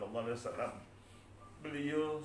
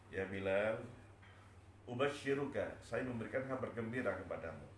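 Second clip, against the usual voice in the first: lower, settled voice after the sobbing; wise reassurance; 3 semitones lower, 4 dB quieter than usual. Acted. Abu Bakar giving Bilal good news, wise and calm. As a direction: answer calmly, consoling him. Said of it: "Sayyidina Abu Bakar dengan bijaknya".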